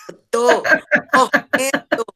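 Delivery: loud, high hungover groan. Real, not acted. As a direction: moan it out like you're dying. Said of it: "Eu tô numa ressaca da desgraça".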